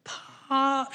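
high calling shout of a grandchild across a hall; imitating a child's shout. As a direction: call out "Pop!" to grandpa from the back. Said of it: "she will scream".

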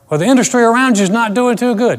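high, loud doubting question; imagined questioner. Retold or imitated.

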